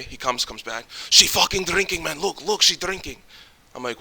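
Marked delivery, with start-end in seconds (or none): 1.1-3.2 higher, mildly indignant retelling; mad friend. Retold or imitated. Friend reporting that she is drinking, imitated as mildly mad. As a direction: imitate your scandalized friend. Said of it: "He gets so mad".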